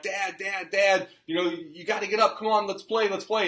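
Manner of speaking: a father voicing his kid begging dad to play, mildly imitated; imitating an eager kid. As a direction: nag like a bouncy child begging to play. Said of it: "and they're like".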